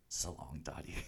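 low, hushed goodbye; mock brooding farewell. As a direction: murmur a mock-dramatic farewell. Retold melodramatic loner farewell.

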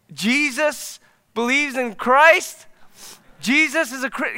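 high, drawn-out disbelieving question; can't believe what you just heard; stunned disbelief. Real, not acted. Pastor reacting to an atheist friend's conversion, stunned disbelief.

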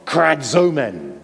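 krazomen slow and drawn out, KRA-zo-men; sounded-out Greek word. Shown as a demonstration. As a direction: let "Krazomen" sound like a cry. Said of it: "You can hear what it sounds like".

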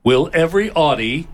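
booming PA announcer. Acted. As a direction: call it out like a terminal announcement. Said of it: "let me put on my announcer voice".

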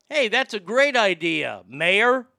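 sarcastic pitch of a great idea; mock enthusiasm. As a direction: feign delight, drawing out key words. Sarcastic praise of mayor's vigil.

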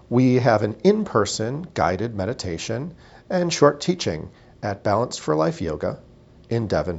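measured, scripted host welcome; podcast intro read. Acted. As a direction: read a neat show intro with pauses.

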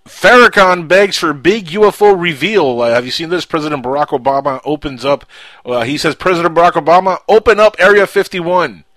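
dramatic headline read. Acted. Reading news headline with emphasis.

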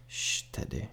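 whispered shush to the dog; hushing whisper. A narrator's reading. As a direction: hush him under your breath.

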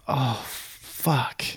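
whispered curse to himself; dismayed whisper. Retold or imitated. Passenger stumped by the capital question, dismayed whisper. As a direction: curse under your breath.

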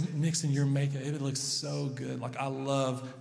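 dad softly praising his daughter's messy makeup; tender praise. Retold or imitated. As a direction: coo it gently to a little girl.

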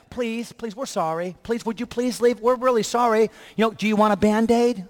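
a hint of grovelling magistrates; mock begging. Magistrates begging Paul to leave, mock pleading. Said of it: "They're begging them".

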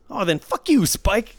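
high, loud mock outburst; angry cursing. Dealer acting out the dismissed player cursing him, angry. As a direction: imitate a sore loser turning nasty.

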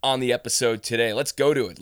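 rally the listeners in; hyped announcer. Real, not acted. Hyping up episode start.

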